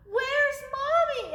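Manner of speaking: high, slow little-owl voice; baby owl. Acted. Baby owl looking for mother, high slow question. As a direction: ask it high and drawn out, like a lost chick. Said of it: "asked Sarah".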